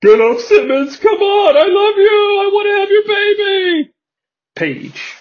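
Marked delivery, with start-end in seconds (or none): 0.0-3.9 put-on high, loud old-man yelling. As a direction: yell from ringside like a crazed old fan. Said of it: "A very old man at ringside yells".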